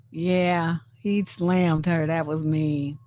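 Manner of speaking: normal talking voice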